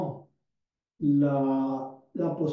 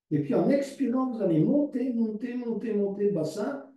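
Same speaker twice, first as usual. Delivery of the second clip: rising coaching cue; 5 semitones higher than usual. Shown as a demonstration. Yoga teacher urging her class to lift their hips, higher coaching voice. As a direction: voice lifted higher as the pelvis goes up. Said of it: "coach cues the lift".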